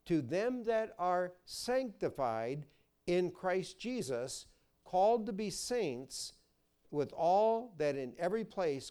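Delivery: slow, solemn Bible reading; scripture reading. Acted. Preacher reading Corinthians to his congregation, solemn and measured. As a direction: read the verse like holy writ.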